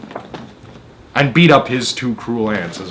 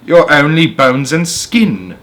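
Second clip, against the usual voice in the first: loud, slow, high mocking call; crying out; 4 semitones higher, 5 dB louder, slower than usual. Sponge crying out an insult at Spiker, loud. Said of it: "Aunt Sponge cried out".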